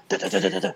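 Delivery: vocalised nonstop beat with no gaps; sing-song drum mimicry; monotone beat imitation. Shown as a demonstration. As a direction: rattle off an unbroken run of da's. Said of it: "It's not like".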